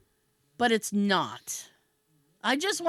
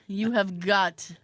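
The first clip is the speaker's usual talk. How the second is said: exasperated disbelief; 2 semitones lower than usual. Retold or imitated. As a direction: draw it out, pausing mid-sentence in disbelief. Retold exasperation at hospital gown.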